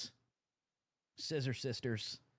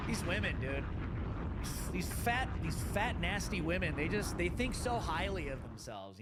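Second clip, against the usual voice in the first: excited rant; 5 semitones higher than usual. Real, not acted. Ranting at clip's woman.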